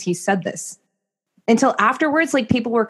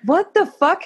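high-pitched mock disbelief; retold shock; 8 semitones higher, slower than usual. Wife reacting to husband's wedding speech, high retold shock. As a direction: replay your stunned reaction, pitched up.

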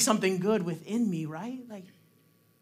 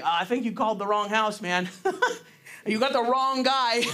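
chuckling through Gideon's protest; laughing disbelief. Retold or imitated. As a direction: laugh it off as the wrong guy. Gideon doubting the angel, laughing.

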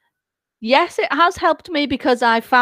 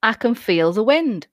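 1 slow hypnotist voice; slower than usual. Shown as a demonstration. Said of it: "if you say".

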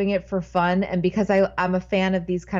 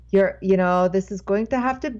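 halting attempt at an Irish accent; bad Irish accent. Irish boss calls waitress in back to fire her, faltering Irish accent. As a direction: try an Irish boss and miss. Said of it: "I can't do an Irish accent".

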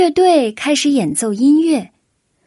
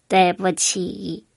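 slow, soft, low "对不起"; sheepish apology; 4 semitones lower, 4 dB quieter, slower than usual. A narrator's reading. The duck apologizes to Dodds, sheepish and slow. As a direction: apologize with your head hung. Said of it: "鸭子说着垂下了头".

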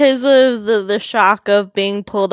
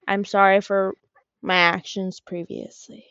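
sweet innocent apology; 3 semitones lower, 8 dB quieter than usual. Acted. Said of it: "be all sweet and cute and innocent".

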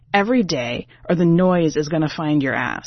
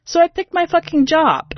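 still stunned; 11 semitones higher, 4 dB louder than usual. Real, not acted. Still reeling from shock.

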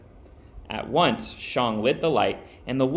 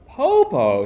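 put-on loud high child calling out; 7 semitones higher, 7 dB louder than usual. A narrator's reading. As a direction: call out to granny through the door. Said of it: "Shang said".

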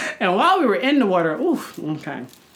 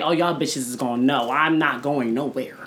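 put-on possessive girlfriend; 6 semitones lower, 4 dB quieter than usual. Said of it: "she was like".

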